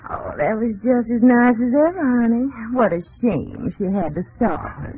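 Southern visitor. Pretend. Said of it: "I'll be a visitor from the South".

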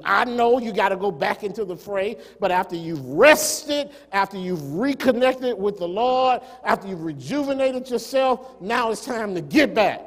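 emphatic, building pulpit charge; rally them to get back to work; exhorting preacher. Acted. Preaches as God's charge to Elijah.

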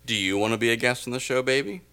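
fast, coaxing come-on; mock seductive invite; smooth-talk a guest onto the show; sweet-talking. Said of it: "are you sweet-talking somebody".

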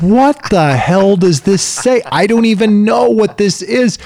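a baffled dad losing patience with instructions; exasperated dad. Retold or imitated. Dad fed up assembling furniture, exasperated and high. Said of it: "and you're like".

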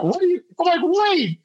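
high, startled cry of realization; high-pitched double take; stunned disbelief. Retold or imitated. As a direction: catch on all at once, shocked. Realizing the shots were fake.

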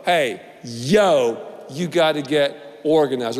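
a hint of a laid-back street voice; lightly voiced homeboy Roe, low and casual; street-style Roe. Preacher riffs on Roe telling Mo, laid-back street voice. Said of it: "Or you could say".

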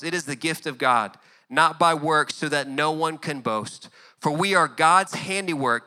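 steady, measured Bible reading; scripture reading. Acted. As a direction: read the passage with reverence. Reads scripture passage.

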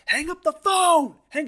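high, loud, slow retold yell. Kidnapper yelling at the captive boy to hang up, loud high yell. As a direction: bellow it like a furious kidnapper. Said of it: "he yells at him".

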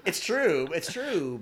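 bursting into a high laugh, then laughing out the words; real laugh at the joke; laughing agreement. Real, not acted. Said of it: "lots of people can't skate".

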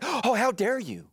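high, drawn-out mock indignation; mock offended. Husband offended with his wife, mock indignant. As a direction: act affronted, stretching it out. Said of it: "When I'm offended with my wife".

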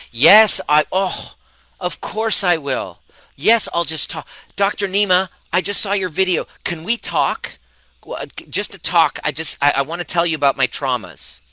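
high, loud gushing yes-man voice; gushing eager pleaser. Retold or imitated. Young coach mocking his old eager self, high and gushing. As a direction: gush it up high like you can't say no. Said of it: "I'd be like".

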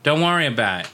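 brushing it off, laughing; laughing dad quote. Retold or imitated. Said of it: "'Cause he doesn't wanna think about it".

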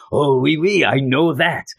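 lightly hammed-up French accent; mock French accent. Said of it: "he's a French guy".

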